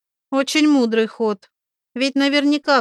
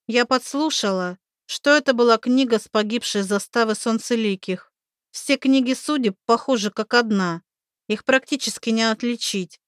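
put-on young woman voice; 3 semitones higher than usual. Oksi's voice, higher.

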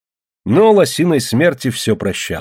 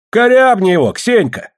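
high, sharp call to a fighter; egging on; 11 semitones higher, 5 dB louder than usual. A narrator's reading. Bystander urges Ksenia to attack, egging on. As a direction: cheer her on with a high call.

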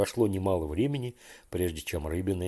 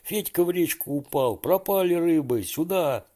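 panicked call; 8 semitones higher than usual. A narrator's reading. Boy panics, friend fell in.

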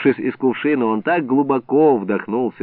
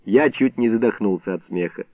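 plain reading voice

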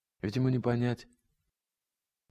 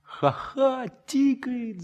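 mocking laughing shout; 12 semitones higher, much slower than usual. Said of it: "закричал я".

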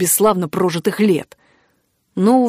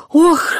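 hoarse groan of pain; 9 semitones higher, 5 dB louder than usual. Acted. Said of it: "прохрипела девушка".

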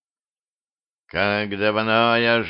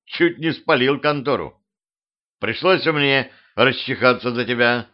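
put-on higher, grumbling old crow; 4 semitones higher than usual. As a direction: scold like a cranky old bird. The crow grandpa speaks.

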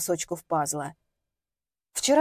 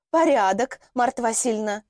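butter up the landlady; fawning. Acted. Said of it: "угодливым голосом отозвалась Динора".

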